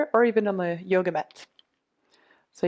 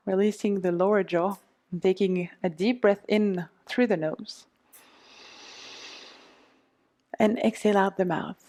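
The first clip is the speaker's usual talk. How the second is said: guided meditation. Acted. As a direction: talk them gently through the massage. Leads a guided self-massage meditation.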